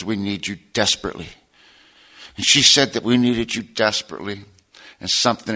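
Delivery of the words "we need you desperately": softer and lower, close and intimate; a soft retold plea; whispered plea. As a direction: say it gently into someone's ear. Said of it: "she whispers up in my ear".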